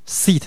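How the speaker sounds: "seat" with the ee stretched out; lengthened vowel. Shown as a demonstration. Teacher stressing that seat stays long, lengthened vowel. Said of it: "会拉长".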